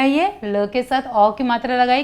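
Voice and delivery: ordinary delivery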